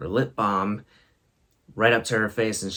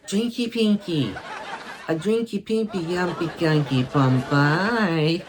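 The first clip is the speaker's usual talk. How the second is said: higher, laughing nonsense drinky pinky babble; imitating child babble; 7 semitones higher than usual. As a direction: babble it like a giggly toddler. Imitating her silly babble.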